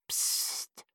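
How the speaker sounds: a breathy shush for silence; whispered shush; hushing whisper. A narrator's reading. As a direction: hush him with a soft psst. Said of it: "legte seinen Finger an seine Lippen".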